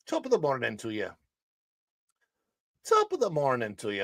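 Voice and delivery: mock Irish greeting; leprechaun Irish accent. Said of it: "A good-looking leprechaun".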